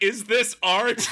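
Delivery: acted-out incredulous question; mock bewilderment. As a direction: voice climbing high in baffled disbelief. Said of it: "clutching my temples, being like".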